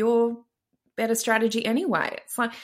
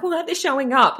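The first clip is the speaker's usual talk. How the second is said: mock indignant complaint; 5 semitones higher, faster than usual. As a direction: play the annoyed coach griping a bit. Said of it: "People get mad at their clients".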